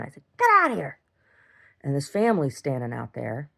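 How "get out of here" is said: high, loud yelled order; retold shout. Ordering the neighbor out, higher and louder shout. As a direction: shout them off. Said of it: "I was screaming".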